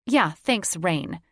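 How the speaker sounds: mock thanks, sharp and loud; sarcastic snap. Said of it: "she snapped".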